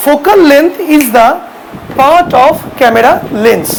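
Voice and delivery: very slow, word by word definition; dictating to a class; slow dictation. Shown as a demonstration. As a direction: spell it out slowly so students can write.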